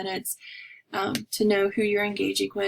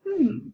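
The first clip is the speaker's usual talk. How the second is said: a higher, pondering hmm; thoughtful doubting hmm; 7 semitones higher than usual. Acted. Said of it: "a very thoughtful pause".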